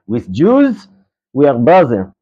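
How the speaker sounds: slow, imitated Israeli accent. Israeli driver reassures the student, slow Israeli accent. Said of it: "classic Israeli".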